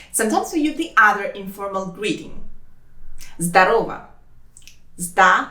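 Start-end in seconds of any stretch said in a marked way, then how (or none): 5.0-5.5 «Здо... ро... во» in separate pieces; careful teaching breakdown; syllable by syllable. Shown as a demonstration.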